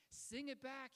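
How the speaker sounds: insist, brooking no refusal; insistent command. Retold or imitated. Acting Einstein's insistent command.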